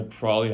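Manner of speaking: "probably" run together inside a quick sentence; fast, everyday "probably"; casual reduced pronunciation. Shown as a demonstration. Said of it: "I say exactly".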